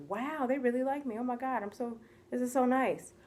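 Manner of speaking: acted-out happy amazement; touched delight. Acting own delighted reaction.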